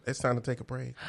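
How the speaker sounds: whispered break call. Real, not acted. Host announcing a break, whispered. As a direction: breathe it softly to the audience. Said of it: "whispered announcement".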